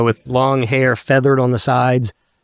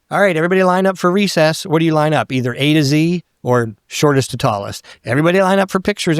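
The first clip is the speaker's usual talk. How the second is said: higher, fast mock teacher call; 4 semitones higher than usual. Teacher calling the class to line up, brisk higher mock call. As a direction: rattle it off like a grade school teacher herding kids.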